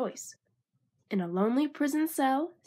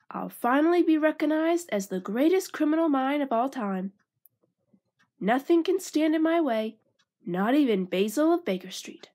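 higher, proud boasting; boastful voice; 4 semitones higher than usual. Acted. Ratigan bragging to his gang, boastful and high. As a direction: crow about your greatness. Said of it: "in a boastful voice".

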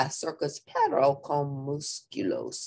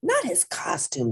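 alarmed; 4 semitones higher than usual. Acted. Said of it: "declared Scapito, alarmed".

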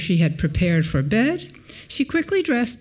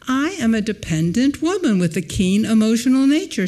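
a touch of fervor, slightly raised; mild exclaiming; 3 semitones higher, 4 dB louder than usual. Retold or imitated. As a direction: lecturer reading her proud declaration with a mild exclaim. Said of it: "she exclaimed".

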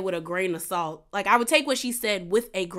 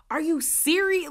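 incredulous; 7 semitones higher than usual. Retold or imitated. Teresa retold, incredulous.

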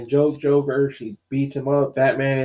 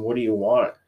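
slightly low, even question; understated question from a lightly acted Batman; lightly voiced Batman; 3 semitones lower than usual. Batman asks the Joker, lightly acted low question. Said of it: "Batman asks him".

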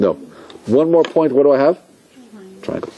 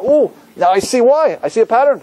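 higher-pitched dawning discovery; acted sudden realization; 10 semitones higher than usual. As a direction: voice an eager "aha" moment. Acts out discovering a pattern.

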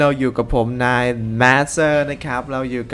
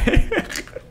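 high wheezing laugh. Real, not acted. Laughing at teammate's story.

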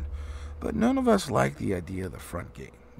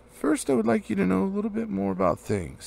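nervous, confused; 8 semitones higher, 4 dB louder than usual. Acted. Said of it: "feeling all confused and a bit shaky inside".

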